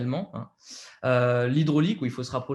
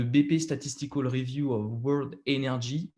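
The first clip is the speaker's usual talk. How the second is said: English title read with a heavy French accent; self-mocking French accent on English words. Real, not acted. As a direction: say the English report name in strong French-accented English. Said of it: "avec mon super accent".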